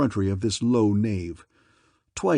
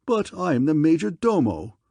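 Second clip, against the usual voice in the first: haughty; 5 semitones higher than usual. Acted. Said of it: "said the man haughtily".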